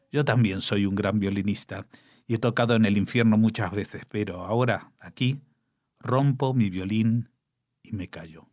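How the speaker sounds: solemn poetry reading with long pauses; poem recital. Acted. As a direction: read it like a grave elegy. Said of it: "déjenme que lo lea". (recitado solemne de poema)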